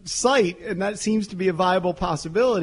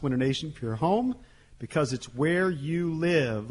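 measured radio ad read, easing softer; live sponsor read; 4 dB quieter than usual. Real, not acted. Host reads window sponsor to radio listeners, measured ad read. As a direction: read the sponsor copy smoothly.

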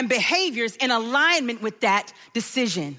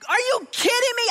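higher, indignant; outraged disbelief; 9 semitones higher than usual. Retold or imitated. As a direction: mom furious at the father's text, outraged. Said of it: "And I'm like".

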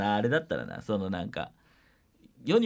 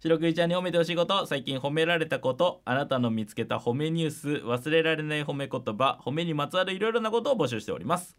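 even, clear host read; radio segment read; radio announcement read. Acted. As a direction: announce the listener mail call. Reads the show's mail call.

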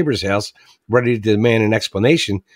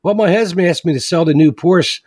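neighbor's punchline; 6 semitones higher than usual. Retold or imitated. Joke teller voicing the neighbor's revenge. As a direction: deliver the revenge with glee. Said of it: "She goes".

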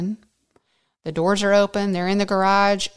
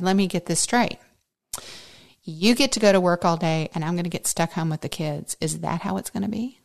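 retold pointed challenge to husband; understated sarcasm, anything but submissive; mock-submissive, attitude; faster than usual. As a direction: act out a cold, controlled retort. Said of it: "in my most submissive voice".

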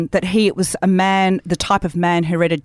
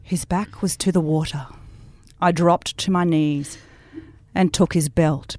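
reading as Judith. Acted. Friend reads the book's belt scene in Judith's voice, lightly sultry. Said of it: "read it out with the voice of Judith".

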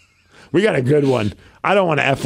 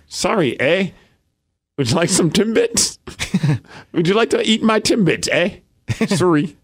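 put-on Canadian accent; 3 semitones higher than usual. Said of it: "Say something sexy in a Canadian accent".

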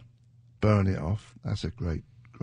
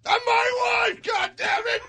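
movie catchphrase; 4 dB louder than usual. Retold or imitated.

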